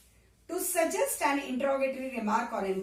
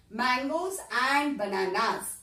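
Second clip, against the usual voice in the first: slow listing; slower than usual. Shown as a demonstration. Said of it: "teacher listing fruits slowly".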